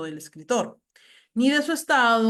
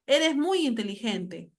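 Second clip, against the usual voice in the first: demonstrated surprise; 3 semitones higher, slower than usual. Shown as a demonstration. Teacher showing exclamation marks for surprise, surprised. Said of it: "se pueden manifestar sorpresa".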